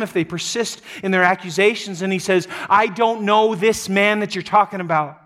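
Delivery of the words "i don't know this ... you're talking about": raised, forceful, pitched up; dramatic emphatic outburst; loud cursing denial. Acted. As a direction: shout him down emphatically. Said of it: "he calls down loud curses on himself".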